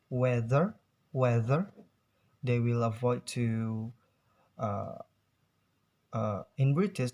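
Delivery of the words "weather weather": "weather" with the final r pronounced; American R sound. Shown as a demonstration. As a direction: say "weather" ending in a clear American r. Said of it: "R sounds, like".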